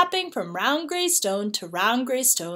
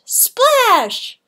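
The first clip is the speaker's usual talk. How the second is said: loud splash word; 12 semitones higher, 8 dB louder than usual. A narrator's reading. Narrator to children, acting out a loud splash. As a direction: belt out the splash, high and loud.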